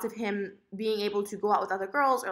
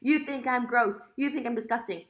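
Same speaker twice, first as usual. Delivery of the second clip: higher, mildly dramatized hurt accusation; mock-offended, pitched up a little; exaggerated accusation; 4 semitones higher than usual. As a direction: act out your own overblown complaint. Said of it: "loves to say I exaggerate things".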